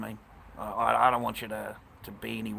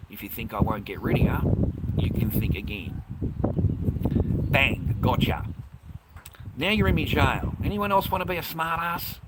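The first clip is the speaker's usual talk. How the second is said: loud, gloating threats; loud gloating while banning; angry threats; 2 semitones higher, 5 dB louder than usual. Real, not acted. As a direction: shout it as you ban them. Banning chatters in anger.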